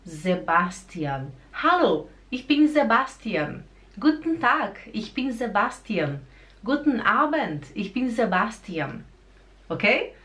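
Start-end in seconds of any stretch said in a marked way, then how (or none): 0.1-9.0 "Sebastian" starting with a buzzing Z; Z-sound demonstration. Shown as a demonstration. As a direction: model greetings with "Sebastian" as ze-BAS-tian. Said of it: "Lembra do Z?".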